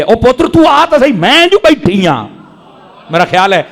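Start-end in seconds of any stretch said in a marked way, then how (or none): 0.0-2.3 mother pleading. Retold or imitated. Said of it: "او ماں مڑ ترلے کر دی ہے".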